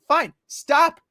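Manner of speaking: high, loud ultimatum; mock threatening. Heroes finally threatening the gems, exasperated mock threat. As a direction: lay down the law, patience gone. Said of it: "basically threatening those gems".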